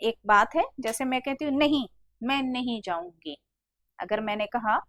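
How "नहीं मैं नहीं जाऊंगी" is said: first "नहीं" set apart with emphasis; stress on नहीं. Shown as a demonstration. Teacher showing students how stress works, emphatic first "नहीं". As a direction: lean on the opening "नहीं" as a refusal. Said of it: "मैं इस पे बल दे रही हूँ".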